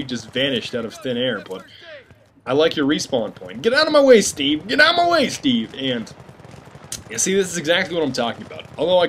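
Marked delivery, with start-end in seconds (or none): 3.6-5.7 high, raised exasperated call; high-pitched, mock-frantic order; yelling at teammate. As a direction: shoo a teammate aside, pitched way up. Calling out at blocking teammate.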